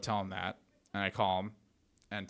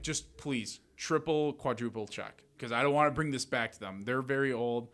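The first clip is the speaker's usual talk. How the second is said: pleading; 4 semitones higher than usual. Retold or imitated. Pleading with title officer.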